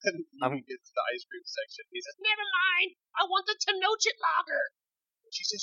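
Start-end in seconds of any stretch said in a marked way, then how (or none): 2.2-4.7 put-on very high, screeching little child's scream. Narrating a scene, voicing a son calling to his mother: screaming child. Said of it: "screaming at each other".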